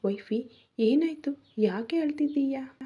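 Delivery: startled and worried, asking what's wrong; husband startled to find his wife crying, asking in alarm. Acted. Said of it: "ಗಾಬರಿಯಲ್ಲಿ".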